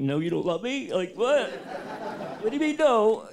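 baffled, pushing back at her no; mock outrage at his wife's refusal; incredulous disbelief.

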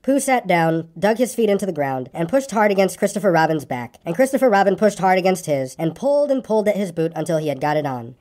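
story narration. A narrator's reading. Reader telling of Pooh's coming adventure, story narration. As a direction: read it to children as a bedtime tale.

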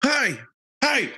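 high, loud party call; shouting. Pretend. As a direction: yell it like a famous party song. Shouting a song's party call.

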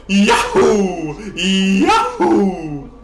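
high, loud cartoon yahoo; hammed-up shout of glee; gleeful whoop. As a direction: whoop it out on a long falling oo. Whooping while committing to a move.

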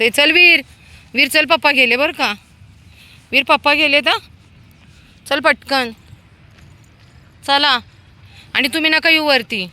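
high, loud calling. Real, not acted. Calling Veer that Papa is leaving, loud high call. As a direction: call him before Papa goes.

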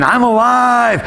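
high, drawn-out exultant cry; retold scream. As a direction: re-enact screaming for joy. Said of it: "I start screaming".

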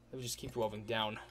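low, soft mock-epic narrator; ominous narration. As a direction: intone it low, slowing into the descent.

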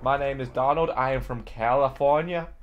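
lightly faked American accent; put-on Californian accent. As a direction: introduce yourself as a fake Californian. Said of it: "Then what is this accent?".

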